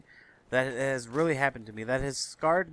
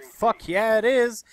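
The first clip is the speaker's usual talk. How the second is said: loud, high-pitched comeback; indignant, raised-voice reply; emphatic retort; 8 semitones higher, 8 dB louder, slower than usual. Acted. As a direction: fire it back loud and high. Acted would-be reply to seat question.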